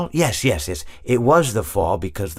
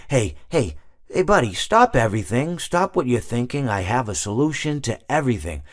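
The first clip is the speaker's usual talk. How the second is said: mock announcement; 4 semitones higher than usual. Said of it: "You're basically saying".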